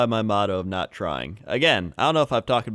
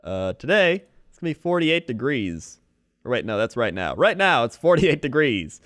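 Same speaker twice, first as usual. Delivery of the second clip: light TV weather forecast; weatherman; 4 semitones higher than usual. Pretend. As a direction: deliver the forecast like local TV. Plays a weatherman.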